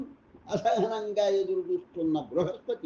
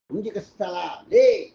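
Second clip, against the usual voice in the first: curt command; 6 dB louder than usual. A narrator's reading. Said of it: "Brihaspati ముక్తసరిగా అన్నాడు".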